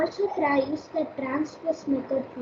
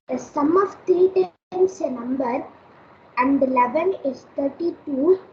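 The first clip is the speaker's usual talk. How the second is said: raised, careful repeat; speaking up louder; 4 dB louder than usual. Real, not acted. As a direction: say it louder so she hears. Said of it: "huh? What?".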